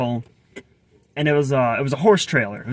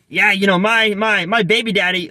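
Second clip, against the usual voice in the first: higher, louder imitation of an inner-city Black accent; imitated inner-city Black accent; 6 semitones higher, 4 dB louder than usual. Cashier chatting about her boyfriend, imitated inner-city Black accent. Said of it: "I'm gonna do a terrible job imitating her accent".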